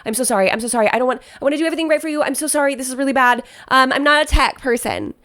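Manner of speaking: lightly hammed-up flustered apology; exaggerated apologetic planner. Planner apologizing to the client for tech mistakes, lightly exaggerated. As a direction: apologize over and over as a mock out-of-depth planner. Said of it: "obviously really exaggerating this planner".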